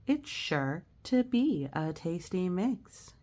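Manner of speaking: slow, storybook read-aloud; reading to children. Acted. Teacher reading a picture book to children, slow and gentle. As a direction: read the rhymes gently to kids.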